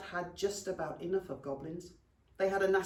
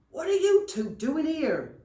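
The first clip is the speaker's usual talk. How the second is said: high, loud goblin outburst; startled scolding; 9 semitones higher, 9 dB louder than usual. Acted. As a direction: demand it in shocked, loud indignation. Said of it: "said Seepage".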